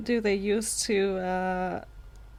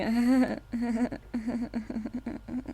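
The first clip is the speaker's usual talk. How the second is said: awkward fake laugh; 2 semitones higher than usual. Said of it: "Just you going".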